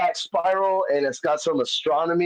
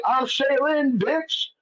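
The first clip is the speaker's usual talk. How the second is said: put-on pitched-up sassy girl voice, snapping the name out; sassy girl persona; 10 semitones higher, slower than usual. Introducing himself as Shaylin to the drunk girlfriend, sassy and pitched up. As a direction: strut in as his girl alter ego.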